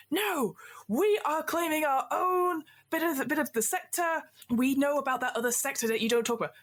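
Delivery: high, defiant pirate captain. Acted. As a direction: stand your ground like a blustering captain. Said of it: "Captain Infrared Beard goes".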